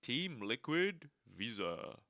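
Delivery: robot voice. Pretend. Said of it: "This is the robot voice".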